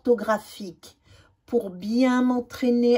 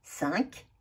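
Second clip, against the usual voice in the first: "Cinq" whispered with no voice; 3 semitones lower, 9 dB quieter than usual. Shown as a demonstration. Teacher whispering a practice word to pupils. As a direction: breathe the word out.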